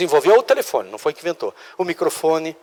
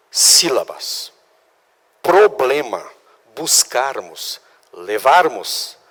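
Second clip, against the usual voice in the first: each syllable drawn out very slow; slow syllable drill; 2 semitones lower, much slower than usual. Shown as a demonstration. Teacher to class, showing diction: very slow syllables. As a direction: spell out every syllable slowly, like a diction teacher. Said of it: "seria isso".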